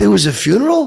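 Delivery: rising question-like tune on the word "funeral". Retelling reading a scripted line at an audition: retelling a line asked as a question. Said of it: "but I kinda asked it".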